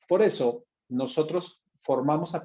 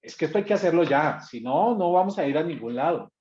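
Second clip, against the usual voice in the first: fast, louder irritated push; impatient boss snapping at the team; angry voice; 3 semitones higher, 4 dB louder than usual. Shown as a demonstration. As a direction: hurry them angrily. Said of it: "La voz de rabia".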